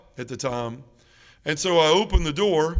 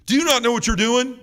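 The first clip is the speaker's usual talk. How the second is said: incredulous priest; 8 semitones higher, 6 dB louder than usual. Retold or imitated.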